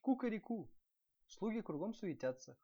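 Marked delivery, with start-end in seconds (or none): 0.0-0.7 high, loud cock-a-doodle-doo; rooster crowing. A narrator's reading. Rooster startling the prince at the hitching post, crowing. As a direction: crow it out like a rooster. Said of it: "и пропел".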